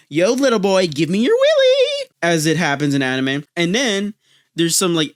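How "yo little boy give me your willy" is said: very high, screechy mock granny demand; demon granny. Turbo grandmother demanding from a boy, hammed-up demon voice. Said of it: "demon-like turbo grandmother who's like".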